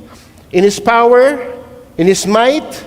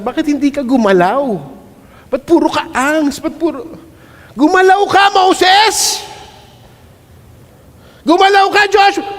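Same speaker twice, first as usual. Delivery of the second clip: commanding shout; 5 semitones higher than usual. Acted. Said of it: "parang kay Lord siya nagsasabi".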